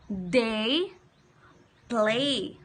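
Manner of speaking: "Day" and "play" said slowly apart, "play" falling; slow model words. Shown as a demonstration. Teacher modelling words for children to repeat, slow. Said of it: "Can you say it with me?".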